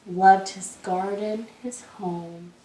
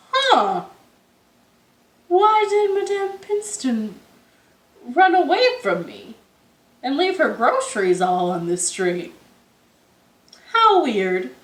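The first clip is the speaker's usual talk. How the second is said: higher, wondering lion voice; puzzled lion; 4 semitones higher, 5 dB louder than usual. Acted. Lion wondering why his friend fled, raised puzzled voice. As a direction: muse aloud, baffled.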